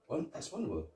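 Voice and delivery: rising to a yelled name; imitating a startled cop shouting for his partner; hammed-up alarm ending in a yell; mock panicked shout. Acting out Rosewood's panic.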